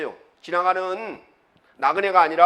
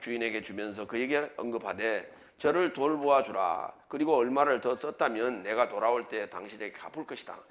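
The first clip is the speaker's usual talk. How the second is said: lower, measured reading voice; scripture reading; 6 semitones lower, 4 dB quieter than usual. Real, not acted. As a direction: read the Bible passage aloud, restrained. Reads the scripture passage aloud. (차분한 성경 봉독)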